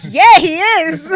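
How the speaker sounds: slow, drawn-out yeah through laughter; laughing mock agreement. Host imagining a guest's reply, laughing and drawn-out. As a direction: play it as a giggling fake confirmation. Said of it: "Imagine he was like".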